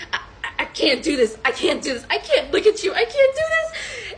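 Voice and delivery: imitated reluctance climbing to a high whine; mock whining protest. Reluctant man refusing to bathe her, mock whine. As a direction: whine it in mounting mock distress.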